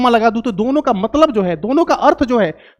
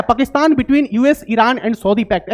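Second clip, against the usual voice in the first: slow headline reading; news headline; much slower than usual. Acted. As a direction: read the headline out slowly. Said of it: "news क्या है".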